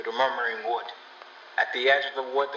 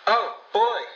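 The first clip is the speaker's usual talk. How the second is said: high startled cry; sharp cry; 11 semitones higher, 4 dB louder than usual. Acted. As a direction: cry out in sudden pain. Girl cries out.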